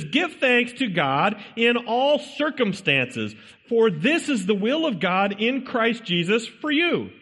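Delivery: slow, deliberate verse reading; scripture reading. Acted. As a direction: read the verse slowly, weighing each word. Reads scripture verse aloud.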